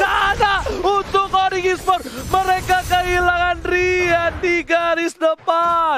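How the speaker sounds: hype shout. Real, not acted. Caster hype, big catch.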